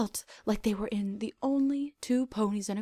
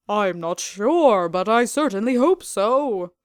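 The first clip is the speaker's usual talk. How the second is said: Starshine tender; 8 dB louder, slower than usual. Acted.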